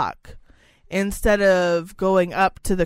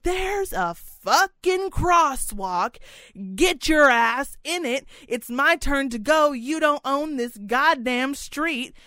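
higher, slow defiant telling off; retold angry retort; 4 semitones higher, slower than usual. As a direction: put him in his place, slowly. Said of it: "And I was like".

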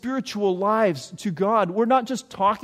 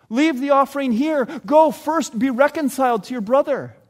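louder and higher, firm charge; urging the congregation, raised and firm; emphatic command; 4 semitones higher, 4 dB louder than usual. Real, not acted. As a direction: drive the command home to the congregation.

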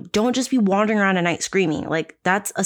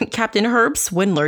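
"Captain Herb Swindler" said through a laugh, a bit higher; 4 semitones higher than usual. Real, not acted. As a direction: chuckle as you repeat "Captain Herb Swindler". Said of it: "he sounds like a fucking sea captain".

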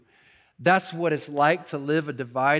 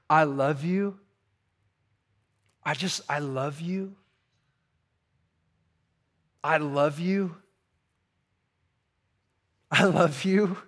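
tender repeated love. Acted. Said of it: "hear me say to you today, from his heart to yours".

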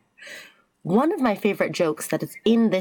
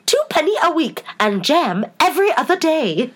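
high-pitched, theatrical pronouncement; grand White Queen; 8 semitones higher than usual. A narrator's reading. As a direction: announce the terms in a high queenly voice. Queen states her terms, acted.

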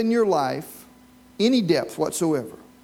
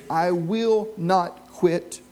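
slow, emphatic vow, each word weighed; fierce determination; slower than usual. Pretend. Preacher voicing a believer's vow, slow and emphatic. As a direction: declare it like a vow you won't break. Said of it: "a fierce determination that says".

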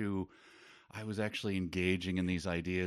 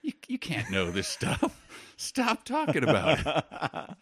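high, laid-back dude, laughing through; mocking mellow peacemaker; chill dude voice; 7 semitones higher, 3 dB louder than usual. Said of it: "and go".

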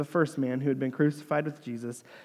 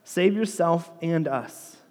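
lightly acted taunting challenge; mock him as a scornful criminal would; hurled insult; 3 semitones higher than usual. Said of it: "hurled insults at him".

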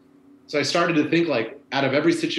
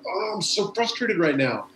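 higher, drawn-out frustrated groan; mock frustration; 6 semitones higher, slower than usual. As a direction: groan it out slowly, acting fed up. Retold frustration after shouting match.

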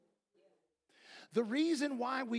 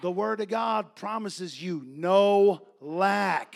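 slow, loud preaching; booming pulpit declaration; emphatic proclamation; 3 semitones lower, 9 dB louder, much slower than usual. Real, not acted. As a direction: proclaim the promise, drawing out each word. Preacher proclaiming promise to congregation.

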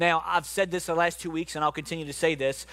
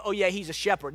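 casual, throwaway agreement; lightly shrugged-off acknowledgement; offhand dismissal; 2 semitones higher than usual. Acted. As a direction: toss it off like it's only a nickname. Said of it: "It's not just a nickname".

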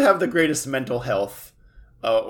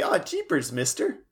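put-on wholesome 1950s kid; 4 semitones higher than usual. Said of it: "you half expect him to say".

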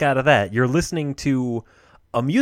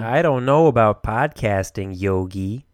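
put-on Jersey accent; 3 semitones lower, slower than usual. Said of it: "when did you become a Jersey guy".

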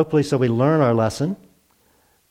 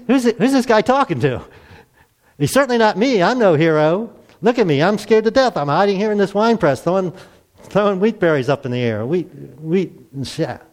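higher, incredulous and scared Gideon; doubting Gideon; 5 semitones higher than usual. Retold or imitated. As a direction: play a frightened farmer who can't believe he's the hero. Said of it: "I can imagine Gideon go".

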